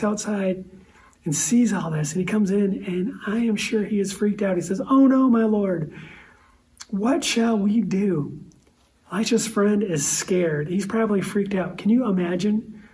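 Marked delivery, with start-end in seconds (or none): 4.9-8.4 panicked servant. Acted. Servant panics seeing the army.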